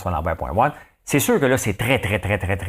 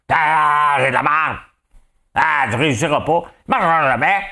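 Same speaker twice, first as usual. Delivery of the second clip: mocking doubter; 6 semitones higher, 5 dB louder than usual.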